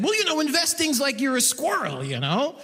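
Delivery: a hint of a patient banker explaining to a child; lightly voiced condescending banker; banker's squirrel voice. Banker explaining investing to a comedian, lightly condescending. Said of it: "that's the voice he's using too".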